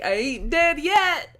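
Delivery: high, drawn-out mock exclamation; slow, high-pitched retold quip; imitated catchphrase. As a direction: stretch it out high, imitating his punchline. Quotes the celebrity's catchphrase reply.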